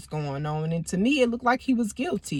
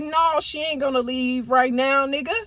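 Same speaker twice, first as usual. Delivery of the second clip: put-on woman defending her friend against the boyfriend; firm defiance; 5 semitones higher than usual. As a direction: stand your ground hard.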